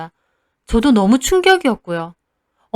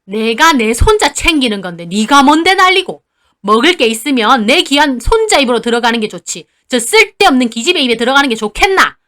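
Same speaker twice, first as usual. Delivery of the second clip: a hint of a loud defiant grandmother; scolding grandma; 5 dB louder than usual. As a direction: defend the grandson. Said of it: "할머니도 덩달아 따지셨어요".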